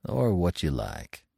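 muttered. A narrator's reading. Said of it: "he muttered".

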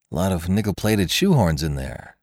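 cool. Acted. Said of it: "said Jimmy coolly".

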